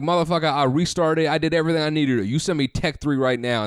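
mock angry demand. Demanding a technician on phone.

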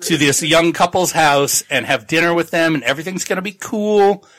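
nervous excited promise. Retold or imitated. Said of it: "He's like".

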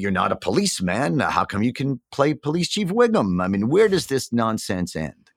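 retold indignant challenge, pitch climbing on the questions; defensive, upset. Actor retelling objections to dropping his voices, defensive. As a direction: argue back, a touch exasperated. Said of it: "I got very defensive and upset at first".

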